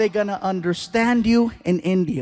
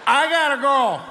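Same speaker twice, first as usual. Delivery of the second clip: put-on drunk whine; 7 semitones higher than usual. Drunk self answering manager.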